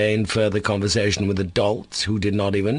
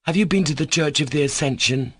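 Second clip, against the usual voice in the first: higher-pitched, pointed question; stern emphasis; 7 semitones higher than usual. A narrator's reading. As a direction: put the question sternly, stressing it. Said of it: "asked him with stern emphasis".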